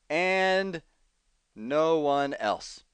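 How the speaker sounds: slow, drawn-out sarcastic addition. Acted. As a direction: say it with dry sarcasm. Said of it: "lest you misunderstand my sarcasm".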